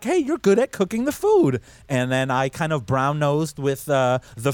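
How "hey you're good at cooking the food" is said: higher, goofy quoted praise; lightly voiced hell boss; quoting the family's praise, hammed up; mock boss voice. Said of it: "they're like".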